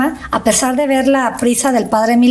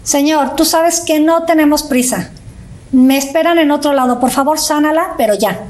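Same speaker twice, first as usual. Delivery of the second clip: hurried prayer. Retold or imitated. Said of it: "esta es la oración que lanza".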